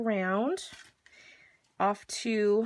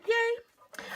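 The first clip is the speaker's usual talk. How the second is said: excited squeal; 13 semitones higher than usual. Real, not acted. Excited about nailing the take.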